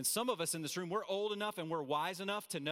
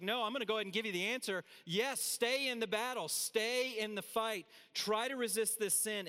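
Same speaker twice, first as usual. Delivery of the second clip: higher-pitched rallying answer; urgent exhortation; 6 semitones higher than usual. Acted. Preacher voicing Paul's answer to stay in the fight, urgent exhortation. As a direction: urge them on with raised pitch.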